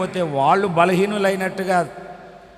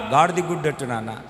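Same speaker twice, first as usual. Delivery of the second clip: put-on child's answer; faster than usual. Small boy telling father he wants a donkey-egg dosa, quick. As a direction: rattle it off as the boy.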